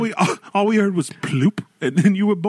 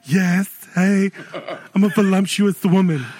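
mock woman voice; slower than usual. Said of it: "guys being girls".

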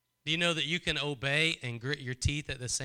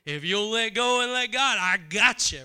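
higher and louder, ringing out; fervent promise from God; 6 semitones higher, 6 dB louder than usual. Acted. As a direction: call the promise out with full force. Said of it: "You hear the Spirit of God saying".

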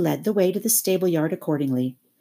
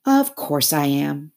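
loyal; slower than usual. Acted. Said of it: "said the Mole loyally".

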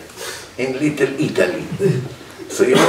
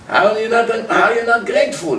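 mock indignation; 7 semitones higher than usual. Voiced oppressor scolding.

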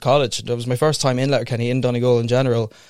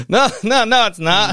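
retold insistence; 9 semitones higher, 3 dB louder than usual. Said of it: "I was like".

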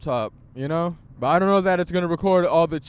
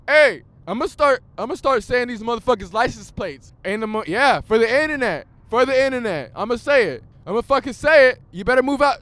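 loud, high-pitched outburst at another driver; real road rage, voice raised; irate road rant; 7 semitones higher, 8 dB louder than usual. Real, not acted. Irate driver ranting at traffic.

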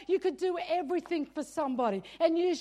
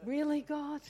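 incredulous mock challenge to God; half-joking doubt; a touch of playful disbelief; skeptical. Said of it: "that's how I felt".

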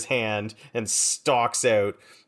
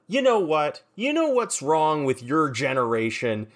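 lightly acted indignant rant, pitched up; mild tirade; 4 semitones higher than usual. Norb taken aback by rude teenagers, indignant. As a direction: launch into a mock tirade at the youngsters. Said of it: "launch into a tirade".

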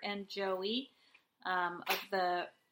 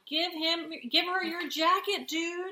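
exasperated urging; 8 semitones higher, 9 dB louder than usual. Retold or imitated. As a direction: yell advice at the screen. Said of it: "all of us on the couch are going".

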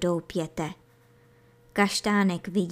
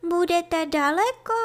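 put-on high young kid-goat voice; anxious little kid; 9 semitones higher, 3 dB louder than usual. A narrator's reading. Scared kid asks rabbit. (nesměle, vysokým hláskem)

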